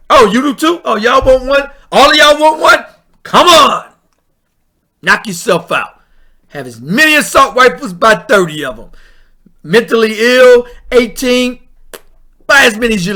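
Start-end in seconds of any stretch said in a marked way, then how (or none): 0.1-7.9 sarcastic, bright and pushed, higher and louder; hammed-up sarcastic salesman; mock cheerful handout. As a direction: hand it over with fake glee. Mock governor offering rifles.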